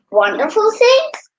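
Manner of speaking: loud, high roar of an ogre. A narrator's reading. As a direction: bellow it like a big ogre. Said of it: "roared the Org".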